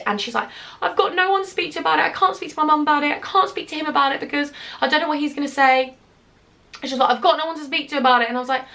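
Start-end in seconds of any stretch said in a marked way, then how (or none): 0.8-6.0 higher-pitched imitation of an upset friend; distressed friend. Retelling her drunk friend's worried phone call, imitated higher-pitched distress. 7.1-8.3 quick, higher imitation of an upset friend; distressed friend. Repeating what her worried friend said, quick imitated distress.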